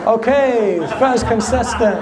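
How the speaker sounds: mock game show host, high. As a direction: play the cheesy quiz host. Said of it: "That sounded like a game show".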